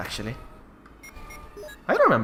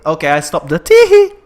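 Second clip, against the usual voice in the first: loud, laughing reply; 4 semitones higher, 16 dB louder than usual. Real, not acted. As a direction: giggle through the words.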